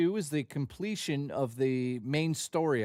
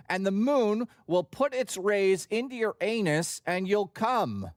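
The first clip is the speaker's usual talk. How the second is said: a higher-pitched, earnest mock David Lynch, slowing at the end; David Lynch impression; 4 semitones higher than usual. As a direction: spin a weird tale as a deadpan David Lynch, lightly done. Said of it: "pretty good David Lynch impersonation".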